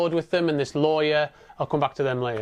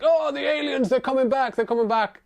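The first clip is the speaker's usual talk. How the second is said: mock panic; 9 semitones higher than usual. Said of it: "he's like".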